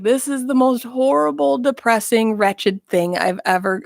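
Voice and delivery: mock despairing.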